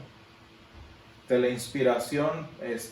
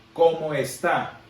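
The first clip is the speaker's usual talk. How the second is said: "como está" as a slow statement, weight on the final "tá"; stress on está; 5 dB louder, slower than usual. Shown as a demonstration. Teacher showing the class how accents change meaning, stress on está. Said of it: "sin acento en la O y acento en la última A".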